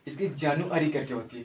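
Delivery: जानुअरी said as jaa-nu-a-ri; pronunciation demo. Shown as a demonstration. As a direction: read जानुअरी letter by letter. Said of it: "spelling जो है ना अलग type में". (जानुअरी का उच्चारण)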